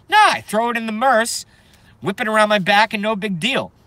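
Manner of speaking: high, loud and swaggering; cocky. Pretend. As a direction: show off the bag proudly. Boastful, pitch raised well up.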